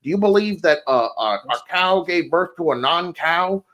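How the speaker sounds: quick mock interrogation; fast, lightly mocking debater's list; rapid-fire questioning. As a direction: reel off leading questions in a hurry. Imitating debater's rapid leading questions.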